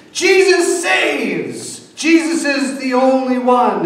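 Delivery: high, slow, mock-grand sign reading; a slogan read out in a hammed-up voice; mock proclaiming. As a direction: announce the slogans like a banner. Bumper stickers proclaiming faith.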